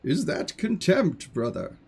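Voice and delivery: measured, quietly disdainful deity; affronted god. Acted. God defends his new kingdom to his brother, measured disdain. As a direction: answer a rival brother with restrained scorn.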